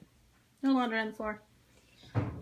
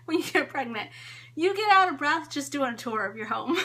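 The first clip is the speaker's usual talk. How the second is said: laughing; 3 dB louder than usual. Real, not acted. Laughs through the line.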